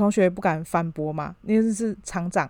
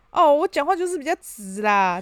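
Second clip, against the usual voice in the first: blunt boss; 6 semitones higher than usual. Retold or imitated. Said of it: "对，他就说".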